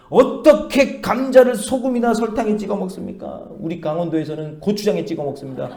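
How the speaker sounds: can't believe what she's hearing, mock-indignant; exasperated landlady. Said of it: "정말 어이가 없다는 듯이". (어이없다는 듯 높고 큰 소리로 따지는 주인 아주머니)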